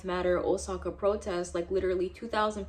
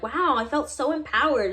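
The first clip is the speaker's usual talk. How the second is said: mock gushing, pitched higher and louder; mocking quote; 5 semitones higher, 4 dB louder than usual. Classmates posting protest pictures, mocked in a sarcastic gush. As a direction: sneer it like a fake-proud classmate.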